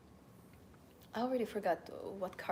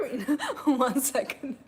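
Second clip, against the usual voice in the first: laughing; 3 semitones higher, 8 dB louder, much slower than usual. Retold or imitated. Man's car shoots off laughing.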